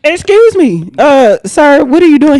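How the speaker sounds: startled question. Retold or imitated. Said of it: "And I'm like".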